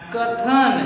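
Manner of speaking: "कथन" with the first syllable का held long and pressed; कथन with stress on the first syllable. Shown as a demonstration. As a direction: lean on the क of "कथन" and stretch it. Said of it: "pressure पड़ रहा है".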